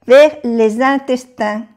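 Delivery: "les intestins" linked with a z sound; "Vers les intestins" with a z liaison. Shown as a demonstration. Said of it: "aquí sí se pronuncia porque le sigue una vocal".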